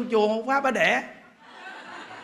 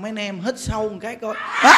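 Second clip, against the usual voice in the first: sudden cry. Acted. Monk leads a breath, then cries out.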